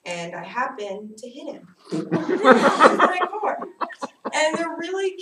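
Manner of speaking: real laughter admitting hitting the biker; laughing. Real, not acted. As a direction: giggle out the confession. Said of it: "laughs while telling".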